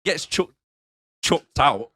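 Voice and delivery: slow, stumbling over similar words; tripping slowly over the words; tongue-twister stumble. Real, not acted. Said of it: "it's like bloody tongue twisters".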